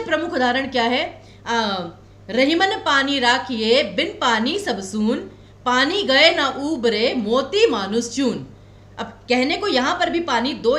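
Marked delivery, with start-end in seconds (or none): 2.3-8.5 slow, measured couplet recitation; reciting verse. Shown as a demonstration. Teacher quoting Rahim's couplet to students as an example, slow recitation. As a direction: recite the couplet deliberately, stretching the words.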